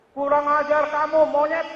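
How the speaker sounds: high, loud, slow insult shouted at a passer-by; angry shout. Retold or imitated. Stranger shouts at the preacher on the street, angry high slow shout. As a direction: yell it like an offended stranger.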